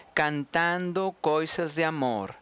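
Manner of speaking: slow Portuguese reading; Portuguese pronunciation. Shown as a demonstration. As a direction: recite slowly in Portuguese. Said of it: "este último verso". (lectura lenta en portugués)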